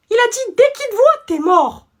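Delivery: put-on high, loud kid relaying a threat; gleeful threat. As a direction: savour the threat.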